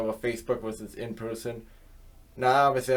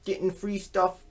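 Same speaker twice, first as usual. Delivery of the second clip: higher, rising sing-song innocent excuse; mocking whiny excuse; 7 semitones higher than usual. Mocking YouTubers who deny advertising, higher whiny voice. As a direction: play the YouTuber dodging blame, all innocence. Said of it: "they always skirt around it".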